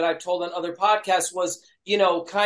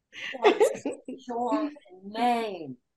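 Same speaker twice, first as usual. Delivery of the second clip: quiet, hushed stage whisper; 4 semitones higher, 4 dB quieter than usual. Retelling asking a band member his name on stage: retelling a half-whisper. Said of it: "trying to whisper".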